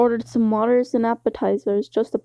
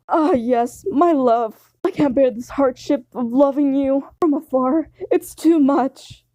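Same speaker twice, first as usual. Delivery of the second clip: swooning lover; 4 semitones higher than usual. Acted. Sanji on one knee to the listener, swooning. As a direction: ham up a lovesick sigh.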